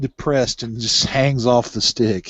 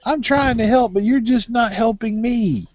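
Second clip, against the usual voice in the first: quoting date high voice; 8 semitones higher than usual. Retold or imitated. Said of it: "what my last date said".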